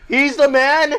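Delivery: high, loud mock outrage; outraged commentators. Commentators cursing the traitor, hammed-up outrage. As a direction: build from shocked squeak to cursing yell. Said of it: "The commentators are like".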